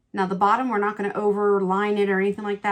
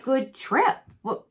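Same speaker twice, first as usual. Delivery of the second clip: what jumps very high, then runs on loud and higher; shocked disbelief; 3 semitones higher, 4 dB louder than usual. Retold or imitated. Retelling her shock at the mother-in-law's insult, loud and incredulous. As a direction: replay the moment the news hit you. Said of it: "I was a little bit shocked".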